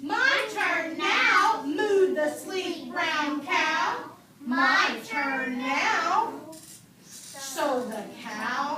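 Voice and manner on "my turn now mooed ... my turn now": a lightly voiced cow, louder and slower; cow speaking. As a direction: drag it out like the cow insisting. Cow character in read-aloud.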